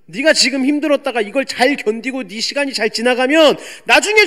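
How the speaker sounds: loud preacher scolding 왜 지금 불평하니. Retold or imitated. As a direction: scold a grieving believer for complaining. Scolding believer mocks complainers.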